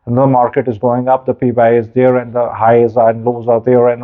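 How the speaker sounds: hammed-up stock market anchor read; mock business anchor. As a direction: ape a TV business news anchor. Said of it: "बड़ी अच्छी इनकी pronunciation है".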